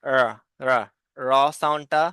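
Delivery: র said with the tongue curled back; rolled r sound. Shown as a demonstration. Teacher modelling the curled-tongue র for pupils. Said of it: "দেখবে যে আর".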